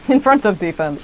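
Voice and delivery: flat, even robotic monotone. Shown as a demonstration. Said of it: "I said that like a robot".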